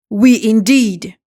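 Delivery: loud, furious outburst; mouse's angry cry. Acted. The shaking mouse yelling at Alice, loud fury. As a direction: bark it out in outrage. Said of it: "cries the mouse".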